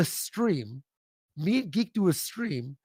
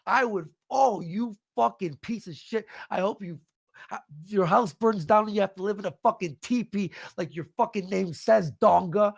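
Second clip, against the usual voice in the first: furious rant. Real, not acted. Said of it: "This is the best W W E promo in a while".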